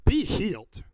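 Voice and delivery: loud, commanding proclamation; short, forceful healing command; Jesus's command. Acted. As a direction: proclaim it with firm authority, falling at the end. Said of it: "Jesus says".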